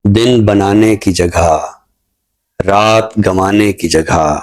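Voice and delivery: slow, measured ghazal recital, lingering on lines; poem recitation. Acted. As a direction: recite each couplet slowly, letting it land. Poet recites his ghazal.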